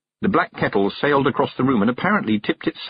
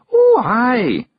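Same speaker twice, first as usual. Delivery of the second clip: higher, louder cheery Scottish aye; cheerful Scots; 14 semitones higher, 7 dB louder than usual. A narrator's reading. Rob answers Miss Level, cheerful Scottish aye. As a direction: chirp it like a proud pixie. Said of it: "said Rob cheerfully".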